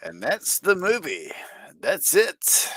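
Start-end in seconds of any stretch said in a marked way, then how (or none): 1.8-2.7 whisper. Real, not acted. Whispered aside after movie.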